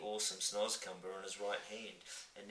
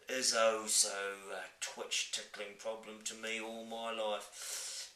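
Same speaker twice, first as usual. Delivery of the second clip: wistful giant voice; 2 semitones higher than usual. Acted. Giant explains.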